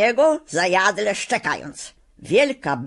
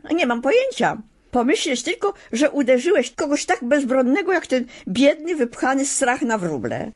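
much higher, exasperated scolding; girl scolds the lion, outraged; indignant girl; 8 semitones higher than usual. A narrator's reading. Girl still angry at lion.

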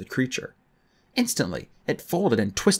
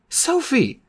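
calling out; 13 semitones higher than usual. Acted. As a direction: call out her name in alarm. Josh cries out to sister.

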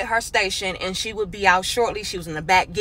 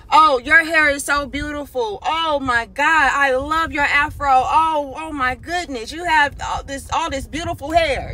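gushing praise; 4 semitones higher than usual. Retold or imitated. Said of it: "ranting and raving".

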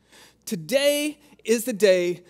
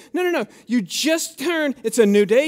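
emphatic shout; 3 semitones higher, 4 dB louder than usual. Real, not acted. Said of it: "hammering the point".

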